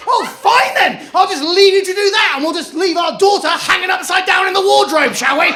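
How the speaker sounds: high, loud sarcastic tirade; sarcastic shout. Retold or imitated.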